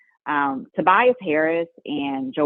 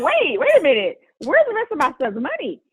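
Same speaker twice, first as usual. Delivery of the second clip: retold alarm; 13 semitones higher than usual. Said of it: "I was like".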